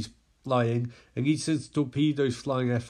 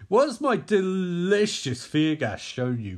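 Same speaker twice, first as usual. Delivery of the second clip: high, relishing villain voice; gloating villain; 5 semitones higher, 4 dB louder than usual. Acted. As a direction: savour the question, pitched up. Scarecrow relishes his victim's fear.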